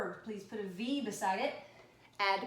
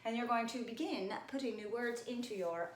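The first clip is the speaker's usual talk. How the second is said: fancy talk; 5 dB quieter than usual. Shown as a demonstration.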